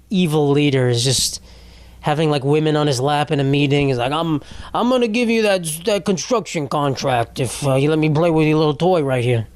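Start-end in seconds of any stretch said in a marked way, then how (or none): 4.1-9.5 mock cartoon villain; Eric Adams. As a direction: play a sleazy kingpin making an offer. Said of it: "truly like a fucking villain".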